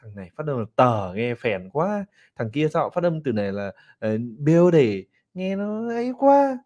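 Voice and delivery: lightly imitating a classmate who mocks accents; playful mock gossip; mock judgmental student. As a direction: sneer a little at the pronunciation. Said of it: "Cứ ngồi vào".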